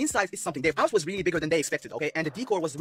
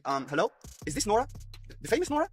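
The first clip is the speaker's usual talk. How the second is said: 1 voiced caller; 3 semitones higher, 4 dB quieter than usual. Caller woman voiced in story.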